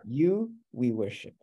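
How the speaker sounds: slow, with weight on "You" at the front; emphasis on You. Shown as a demonstration. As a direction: set "You" apart first, then "we worship". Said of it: "do emphasis on you".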